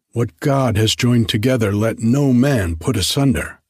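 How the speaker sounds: student parodying a wedding vow, hammed-up solemn; mock pathos. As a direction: preach it with fake gravity. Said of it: "he concluded with pathos".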